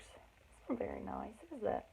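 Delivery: soft, nearly whispered question to the listeners; hushed aside. Real, not acted. Reader leaning in to the kids, hushed and gentle.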